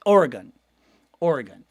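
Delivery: Oregon twice as OR-uh-gun; practising Oregon. Shown as a demonstration. Host locking in the right Oregon. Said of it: "I think we got it".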